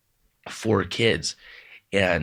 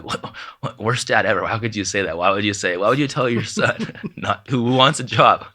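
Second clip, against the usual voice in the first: mock outrage; 3 semitones higher, 5 dB louder than usual. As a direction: play the whiny teenage son protesting to dad. Teen son protests to dad.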